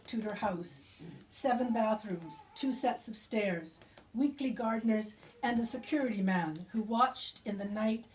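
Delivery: measured, deliberate poem reading with weighted pauses; poetry reading. Acted. Poet reading her memoir poem to the audience, measured and deliberate. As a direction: read the poem slowly, letting each image land.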